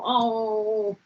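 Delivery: drawn-out "oh" of country heartbreak; mock wail. Parodying her own country song, mock wail. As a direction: moan a hammed-up country lament. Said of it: "Just classic country song".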